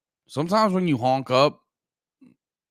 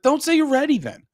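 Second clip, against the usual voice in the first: mock exasperation; 3 dB louder than usual. Acted retort to a late friend.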